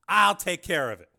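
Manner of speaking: cool and in control; calm politician. A narrator's reading. Carmen sending his secretary away, calm.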